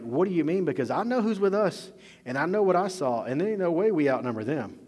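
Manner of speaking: high, loud acted disbelief; hammed-up frightened objection; mock terrified protest. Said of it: "He's probably terrified".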